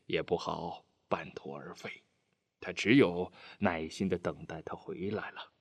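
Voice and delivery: soft, subdued reassurance; quietly moved. A narrator's reading. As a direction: speak softly, touched but holding it back. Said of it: "心里不由一热". (心里一热，轻声叮嘱)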